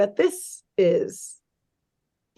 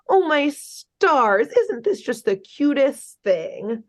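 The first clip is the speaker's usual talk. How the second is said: slow, lightly mocking baby-talk coo; little baby voice; 4 semitones higher, slower than usual. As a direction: coo slowly as if pandering to small children. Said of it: "puts on this little baby voice".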